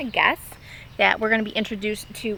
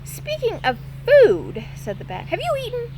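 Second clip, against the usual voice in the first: louder, keen bat voice; eager bat; 3 dB louder than usual. Acted. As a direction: pitch the dumpster dinner eagerly. Bat invites her for Chinese.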